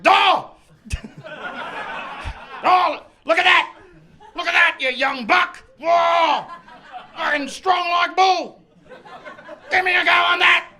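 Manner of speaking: high, loud Austrian Arnie voice, laughing; Arnold Schwarzenegger impression. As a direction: shout like Arnie flexing at a bodybuilder. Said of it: "a half-decent Arnold Schwarzenegger".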